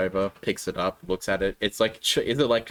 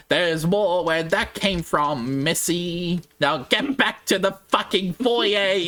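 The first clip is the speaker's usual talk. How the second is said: slow, mocking villain threat, a touch higher; villain taunt; 5 semitones higher, slower than usual. Villain taunting Missy back to the foyer, slow sneer. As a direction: sneer it out slowly at the party. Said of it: "he goes".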